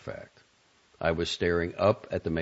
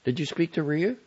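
raised, impatient questioning; 11 semitones higher than usual. A narrator's reading. Guest questioning matron of honor about Rhea, impatiently. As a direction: push for an answer, pitched up. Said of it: "she asked impatiently".

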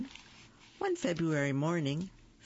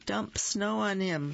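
keen suggestion; 6 semitones higher, 3 dB louder than usual. Acted. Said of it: "Phyllis suggested".

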